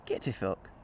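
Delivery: stronger Glaswegian take on Get to fuck; better Glaswegian accent. Pretend. After host approves, firmer Glaswegian accent. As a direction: lean harder into the Glasgow sound. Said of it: "That's better".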